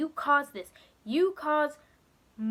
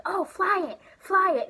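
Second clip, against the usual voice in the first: higher, louder eager cheering; excited cheer; 8 semitones higher, 7 dB louder than usual. Retold or imitated. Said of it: "Penny's like".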